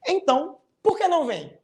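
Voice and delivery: "Então, por que não vem?" pitched high, with a pause after "Então"; high, demonstrative question on "Então, por que não vem?"; question intonation. Shown as a demonstration. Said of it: "É importante você ler com entonação".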